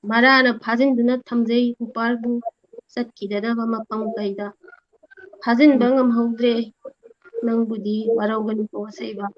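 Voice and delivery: measured verse with gaps between lines; unhurried line-by-line poem delivery; poem recitation. Real, not acted. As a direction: recite steadily, a pause after each line.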